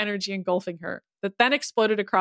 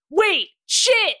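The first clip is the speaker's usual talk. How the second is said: high-pitched alarmed exclamation; sudden alarm; 11 semitones higher, 4 dB louder than usual. A narrator's reading. Ryan realises he gave himself away, alarmed. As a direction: blurt it as the mistake lands.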